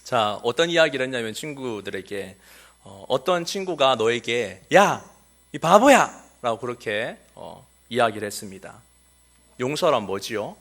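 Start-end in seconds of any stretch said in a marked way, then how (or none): 4.7-6.2 higher, louder taunting yell; a kid taunting a friend in a hammed-up yell; mock insult. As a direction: jeer at a friend. Insult acted out for children.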